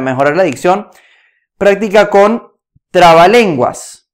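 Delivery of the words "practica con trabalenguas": slow and deliberate, leaning on each word; slow emphatic. Acted. Coach stressing the final tip to viewers, slow and deliberate. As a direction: lay out the tip slowly so it sinks in.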